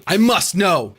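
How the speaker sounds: high, loud, frantic insistence; desperate demand. Acted. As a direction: insist like your sanity depends on it. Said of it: "he demanded".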